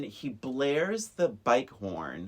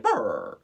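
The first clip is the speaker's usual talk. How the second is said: dog growl; 6 semitones lower, 3 dB louder than usual. Retold or imitated. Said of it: "the little dog is like".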